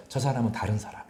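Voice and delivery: mild whispered awe; 속삭이듯 감탄. Retold or imitated. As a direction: hush it as if sharing a secret. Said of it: "하고 새롭게, 예, 부른다는 겁니다". (속삭이며 감탄하듯)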